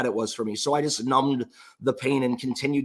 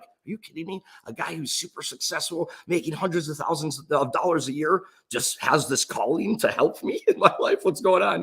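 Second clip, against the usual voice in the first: excited disbelief; 4 semitones higher than usual. Retold or imitated.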